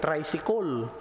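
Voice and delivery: Tricycle ending in a rounded "-kol"; Cebuano-accented "traysikol". Shown as a demonstration. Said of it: "Paano bigkasin ng mga Cebuano".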